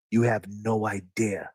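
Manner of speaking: soft whispered confession. Real, not acted. Telling listeners what he gave up, whispered. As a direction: breathe it out, almost to himself. Reflecting on his sacrifices.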